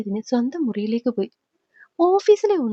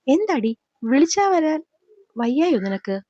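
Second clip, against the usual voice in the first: angry; 2 semitones higher than usual. Acted. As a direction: demand an answer, irritated. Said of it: "ദേഷ്യത്തോടെ ചോദിച്ചുകൊണ്ട്". (ദേഷ്യത്തോടെ ചോദിക്കുന്നു)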